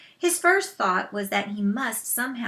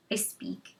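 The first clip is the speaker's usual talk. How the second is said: much lower, soft grunt; low gruff warrior grunt; 13 semitones lower, 8 dB quieter than usual. Acted. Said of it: "he grunted".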